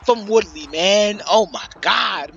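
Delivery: loud, high, slowed hype yell; excited shout. Real, not acted. Commentator yelling about Woodley's block.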